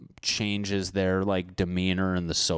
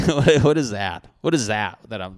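put-on old-movie tough guy; 2 semitones higher, 8 dB louder than usual. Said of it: "they're all, like".

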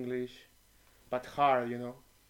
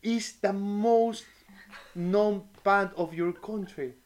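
insistent; 6 semitones higher, 6 dB louder, slower than usual. Retold or imitated. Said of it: "I said".

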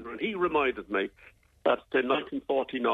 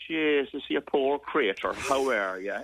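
lightly imitated Kerry accent; a hint of a Kerry farmer's accent; slower than usual. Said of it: "in a strong Kerry accent".

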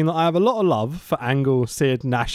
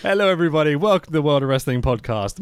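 slightly raised podcast greeting; put-on host voice. Real, not acted. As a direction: launch the show with a host's hello. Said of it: "that tone of voice".

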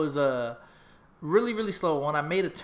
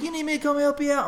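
dad's voice; 11 semitones higher, 5 dB louder, faster than usual. Retold or imitated. Dad offering help.

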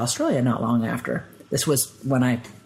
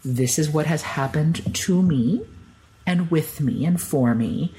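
measured reply; slower than usual. Retold or imitated. Calmly answering disbelieving people.

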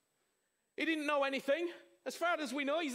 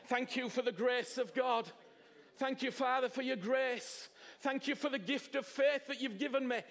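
grateful prayer. Shown as a demonstration. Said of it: "someone say".

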